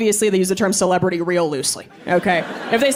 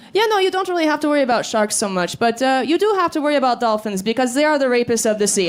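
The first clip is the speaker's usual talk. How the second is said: put-on European accent; 3 semitones higher, faster than usual. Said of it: "he had this really thick European accent".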